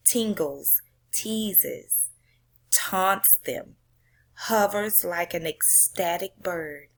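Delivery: slow, dramatic poem reading. Acted. Teacher reading a poem aloud to class, dramatic poem reading. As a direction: read it like you're watching the runner on base.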